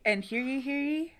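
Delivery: half-hearted, soft town crier, not British; a quiet go at a crier's call. Acted. Co-host echoing the hear ye call, hushed town crier. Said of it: "why is your town crier not British".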